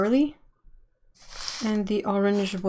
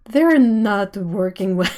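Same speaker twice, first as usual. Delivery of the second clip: laughing; 6 dB louder than usual. Real, not acted. Laughing at own brain fart.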